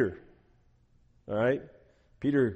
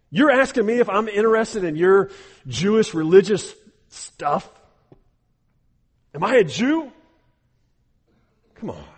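higher, louder mocking scorn; sarcastic; 6 semitones higher, 8 dB louder than usual. Pilate mocking Jesus, sarcastic and louder. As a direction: sneer the questions back at him. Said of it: "No doubt he's saying that with sarcasm".

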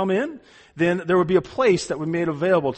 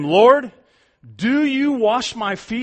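astonished question; 5 semitones higher, 5 dB louder, slower than usual. Acted. Preacher voicing Peter's astonished question.

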